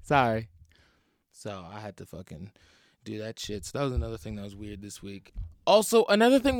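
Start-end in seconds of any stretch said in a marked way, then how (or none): 0.0-0.5 smiling fake apology. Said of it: "smiling like an asshole".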